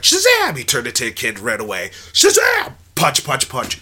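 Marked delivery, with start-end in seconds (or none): 0.0-0.6 loud, high heroic yell; hero's shout. Pretend. Imagining the hero transforming mid-fight, shouting loud. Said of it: "where it was like". 2.1-2.7 loud, high heroic yell; hero's shout. Pretend. Imagining the hero transforming mid-fight, shouting loud. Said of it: "where it was like".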